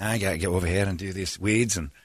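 muttering to himself in a put-on Scottish accent; rough imitation of his own Scottish-accented self-talk. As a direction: talk yourself through chores with a mock Scottish accent. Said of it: "I speak to myself in a Scottish accent".

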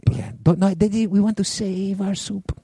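high, prim mock restaurant owner; hammed-up snooty soup owner; snooty restaurateur. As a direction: play a stingy fancy chef. Both mock stingy restaurateurs.

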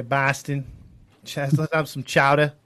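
put-on Boston fan talk; playful imitation of Boston speech; mock Boston accent. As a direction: drop the r like a fake Bostonian. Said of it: "they put on their Boston accent".

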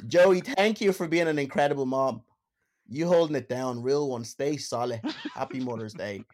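put-on hammy Dublin accent reading. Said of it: "let me read them out in Dublin accent".

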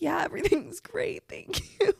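high, squeaky fake-fine reply; mock-tearful reassurance. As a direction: insist you're fine, half laughing, half crying. Retold reply while upset and embarrassed.

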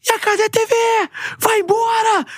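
high-pitched mock angry heckler; angry viewer. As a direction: yell it like an offended fan. Angry viewer yelling at streamer.

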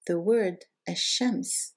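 Ash-Shams repeated slowly, doubled sh; The word Ash-Shams, slow careful. Shown as a demonstration. Teacher repeats sun word slowly. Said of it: "let me introduce you".

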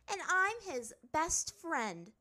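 high, slow, emphatic boast; self-important. A narrator's reading. Azula reasoning with the master, self-important. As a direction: stretch it out proudly and loudly. Princess arguing her case.

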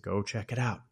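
quiet teasing to a trapped wife; sly taunt. Retold or imitated. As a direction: toy with her gently. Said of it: "just playing with her".

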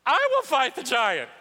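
bold declaration. Acted. David volunteers to fight.

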